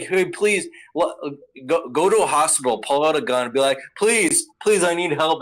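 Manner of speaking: a spoiled brat begging while waving a gun; mock pleading noble. Mocking the noble asking for help, whiny plea. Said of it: "who's like".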